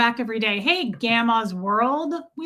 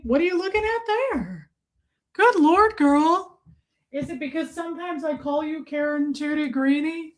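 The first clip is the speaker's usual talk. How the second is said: mock sassy teasing; 4 semitones higher than usual. Teasing a viewer in a put-on voice.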